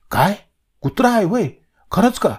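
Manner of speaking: can't believe it's only a dog; astonished question. A narrator's reading. Raja hearing the leopard is only a dog, in high astonished disbelief.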